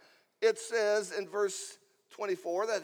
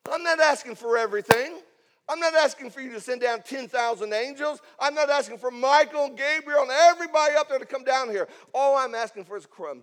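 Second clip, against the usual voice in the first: loud, driving plea in rising waves; fervent pleading; 2 semitones higher, 7 dB louder than usual. Acted. Mother telling Jesus she asks only a crumb, fervent. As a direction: pile up each refusal with force.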